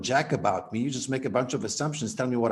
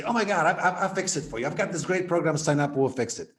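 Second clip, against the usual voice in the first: eager fixer; 3 semitones higher, faster than usual. Retold or imitated. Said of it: "don't immediately say".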